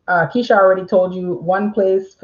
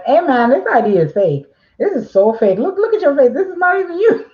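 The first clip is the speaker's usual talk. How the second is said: mock accusation climbing higher; hammed-up rude clerk calling out a fake ID; accusing call-out; 5 semitones higher than usual. Notary mocking a rude call-out to a customer, higher and scornful. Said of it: "But I'm not going".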